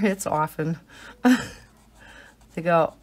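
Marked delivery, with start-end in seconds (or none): 0.3-0.8 "often" said as OFF-en; silent T. Shown as a demonstration. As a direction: drop the T from "often". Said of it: "I don't say often anymore".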